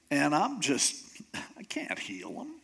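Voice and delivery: whispery, helpless little complaint; mock whining. King telling Elisha he can't heal the general, whining. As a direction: act out a despairing king, voice dropping to a whisper. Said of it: "like, whining and crying and mourning".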